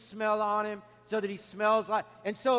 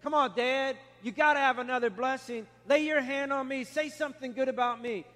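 coaxing, slightly raised retold plea; begging; 3 semitones higher than usual. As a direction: beg a father for one favour, lightly acted. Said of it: "he begged".

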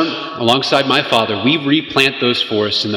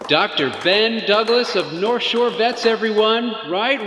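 bright, slow, higher host voice; forced cheerful hype; 7 semitones higher than usual. Acted. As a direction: rescue the moment with fake cheer. Host hyping awkward speaker.

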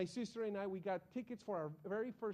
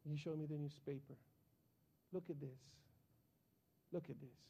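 grave pastor; 3 semitones lower, 4 dB quieter than usual. Retold or imitated. Pastor voiced, grave rebuke.

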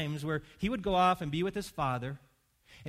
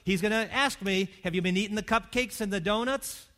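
anxious patient; 3 semitones higher, 5 dB louder than usual. Retold or imitated. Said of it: "the person who says".

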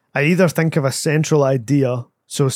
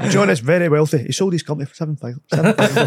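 lightly put-on boastful uncle; chatty uncle patter, quickening; a hint of a blethering uncle. Shown as a demonstration. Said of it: "It was just a voice I did".

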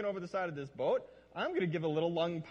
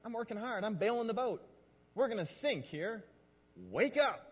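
mild accusatory prayer; 5 semitones higher than usual. Retold or imitated. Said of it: "you look to God and you're like".

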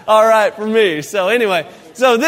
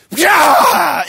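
sudden high yelp of dismay; startled yelp; 7 semitones higher, 5 dB louder than usual. Retold or imitated. Wife yelps as the stuffing bag bursts, high and loud.

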